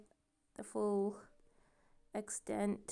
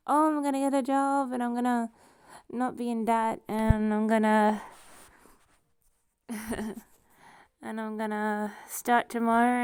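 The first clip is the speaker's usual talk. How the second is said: excited; 3 semitones higher than usual. Retold or imitated. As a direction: bubble over with daydream excitement. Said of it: "I was sort of excited for a minute".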